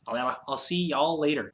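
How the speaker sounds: mock Southern drawl on "y'all". Shown as a demonstration. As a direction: stretch "y'all" like a playful Southern goodbye. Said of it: "I can't talk".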